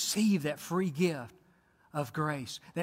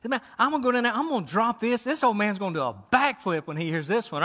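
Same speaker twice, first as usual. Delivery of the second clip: mildly excited angel; 3 semitones higher, faster than usual. Acted. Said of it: "Gabriel was excited".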